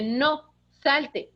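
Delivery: firm, steady command; firm own voice. Shown as a demonstration. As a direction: say it firmly in your own voice. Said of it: "Con tu misma voz dile". (con firmeza, en su voz natural)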